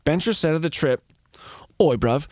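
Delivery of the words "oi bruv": put-on English accent. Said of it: "when I do an English accent".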